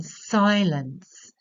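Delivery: "silence" slow, stressed on the first syllable; trochee. Shown as a demonstration. Teacher showing a trochee, "silence" slowly stressed then unstressed. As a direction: lean on the start of "silence", let the second syllable drop. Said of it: "a stressed and then an unstressed syllable".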